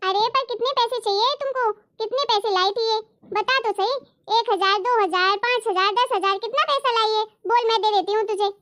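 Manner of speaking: a hint of a fussy old mother-in-law offering to pay. Mother-in-law voice, higher, breaks in. (हल्की सी ऊँची आवाज़ में दख़ल देती सास)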